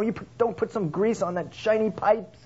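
high nagging voice, fussing over the car; fussy car owner. Retold or imitated. Car lover fussing at the mechanics in a high voice. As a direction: fret about the shiny pipes.

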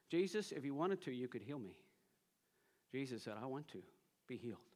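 very soft, low quoted exchange; hushed retelling. Retold or imitated. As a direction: retell it gently, dropping far down in volume. Preacher retells leper and Jesus quietly.

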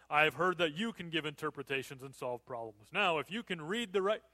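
calm self-assured king; kingly voice. Shown as a demonstration. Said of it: "I've got it all together kind of kingly voice".

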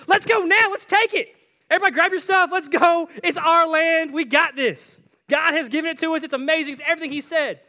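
high, loud, fired-up rallying shout; rally the troops at full volume; Caleb. Acted. Caleb rallies everyone to take land.

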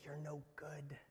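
a hint of Satan sneering, rising to a shout; accusing Satan. Satan whispering shame to the heart, building loud.

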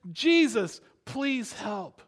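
pleading call, loud on the name; calling out from afar. Acted. Ten lepers to Jesus across the street, calling out. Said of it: "call out to him from a distance".

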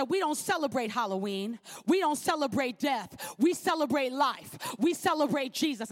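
clear, bold declaration. Retold or imitated. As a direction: say it firmly, looking them in the eye. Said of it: "Louder so they can hear you".

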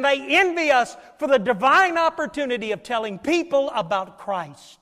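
lifted, emphatic pulpit delivery; impassioned preaching. Real, not acted. Preacher tells congregation why he is here, impassioned preaching.

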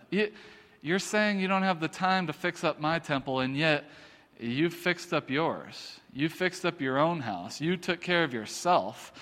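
quietly frustrated reproach; God. Acted. God to his people about the neglected temple, restrained frustration. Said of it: "he's frustrated with them".

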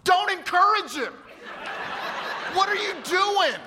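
high, slow, laughing protest; exasperated plea to God. Retold or imitated. Pastor protesting to God at the altar, high and exasperated. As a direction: beg heaven to stop it, half laughing. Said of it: "looking up to God going".

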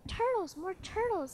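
high, loud braying shout; bellowed order. Acted. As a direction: bellow down to the pond. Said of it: "he bellowed and brayed".

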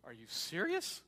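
disbelieving question with a sharp upward swoop; are-you-kidding-me disbelief; incredulous Pharisee. Acted. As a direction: act out a Pharisee's private disbelief, pitch leaping at the end. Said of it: "thinks to himself".

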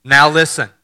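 Doctor Stanley's byword. Retold or imitated. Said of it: "Doctor Stanley's favorite byword".

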